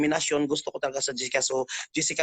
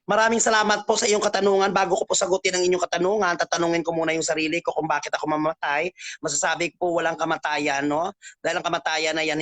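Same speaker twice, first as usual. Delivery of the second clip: formal beauty queen answer; pageant contestant. Pretend. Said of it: "sasagutin mo ito na parang nasa Q and A ka".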